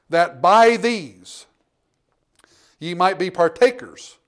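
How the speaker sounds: preacher reading the promise aloud; scripture reading. Acted. Reads scripture at full voice.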